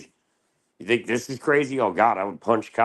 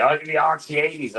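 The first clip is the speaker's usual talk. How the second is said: higher, eager pusher voice; imitating the doctor; 9 semitones higher, 3 dB louder than usual. Florida doctor offering pills, eager mock voice. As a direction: sell it like a dealer.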